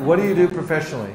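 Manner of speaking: fast, laughing through the question. Shown as a demonstration. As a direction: ask it fast while laughing. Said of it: "No, I'm asking you".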